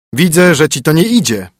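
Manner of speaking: brisk, bossy husband; stern husband. Acted. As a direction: lay down the rules to the spoiled princess. Husband voice again.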